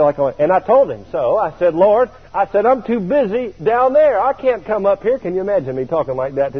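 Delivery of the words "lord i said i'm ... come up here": high, pleading protest to the Lord; whiny plea not to go to heaven. Retold or imitated. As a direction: beg off, higher and urgent. Protesting to Jesus in dream.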